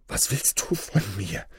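put-on giant voice; booming giant. A narrator's reading. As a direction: demand it as a looming giant. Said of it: "dröhnte er der Mutter ins Ohr". (dröhnende Riesenstimme)

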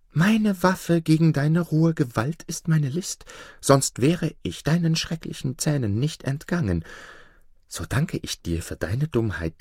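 lightly voiced crafty fox giving orders; sly fox. Fox telling the wolf how to stand, lightly sly. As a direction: instruct him smoothly.

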